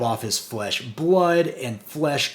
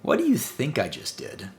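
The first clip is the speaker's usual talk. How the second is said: smug. Retold or imitated. Reviewer voices Cobra Commander answering Zarana, smug. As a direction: toss it back smugly, imitating a villain. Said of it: "so smug".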